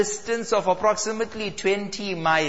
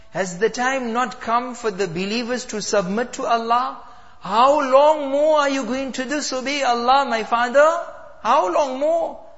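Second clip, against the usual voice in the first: pleading daughter; 3 semitones higher than usual. Acted. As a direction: beg your father to change. Daughter pleads with sinful father.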